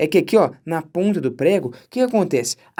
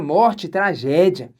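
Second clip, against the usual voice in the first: mock tragic; 3 semitones lower, much slower than usual. Mock-tragic end of list.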